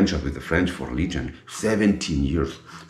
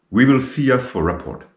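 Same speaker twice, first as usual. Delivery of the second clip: sharp, raised threat over the shoulder, higher and louder; retold angry threat; 9 semitones higher, 5 dB louder than usual. Colonel calls back to the legionnaire, angry and raised. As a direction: throw a mad warning back while running off. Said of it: "So he was mad".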